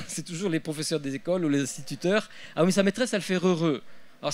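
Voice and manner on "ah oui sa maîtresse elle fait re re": higher, lightly mimicked parent's complaint; complaining parent. Parents blaming the teacher for the accent, mock complaint. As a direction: lightly act out a parent blaming someone else.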